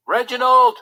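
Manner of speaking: loud call then plaintive question. Acted. Frederick calls Reginald, loud then hurt. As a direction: shout for the valet, then sag. Prince calls his valet.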